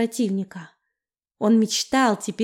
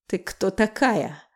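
vampire voice; 2 semitones lower, slower than usual. A narrator's reading. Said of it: "спросил он".

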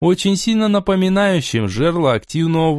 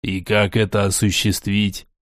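low lord voice; 5 semitones lower than usual. Acted. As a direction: ask low and measured. Borey questions his fey.

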